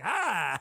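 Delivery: drawn-out imitated yell, no real volume; half-hearted killer doll "ah"; mock attack cry. Imitating Chucky grabbing a butcher knife, mock attack cry.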